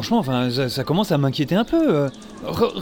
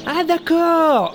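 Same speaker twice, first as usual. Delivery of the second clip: very slow; 10 semitones higher, much slower than usual. Acted. Friend answers slowly.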